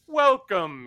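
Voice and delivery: a hint of a booming telepathic creature; deep telepathic voice. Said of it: "it says in a deep telepathic voice".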